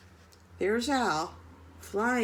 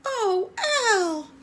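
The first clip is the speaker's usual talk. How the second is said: laughing relief; 10 semitones higher, 5 dB louder than usual. Acted. Joyful reunion with friend.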